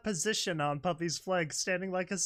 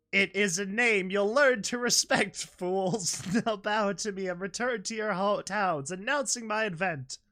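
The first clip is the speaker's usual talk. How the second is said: villain's anger; 3 semitones higher, 3 dB louder than usual. Acted. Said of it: "shifted to sa-, anger".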